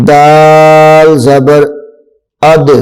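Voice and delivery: اد with a strong echoing قلقلہ on د; اد ending in a clear rebounding d; bouncing d. Shown as a demonstration. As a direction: let the د in اد bounce out. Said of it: "قلقلہ کی آواز جو ہے وہ خوب ظاہر ہونی چاہیے".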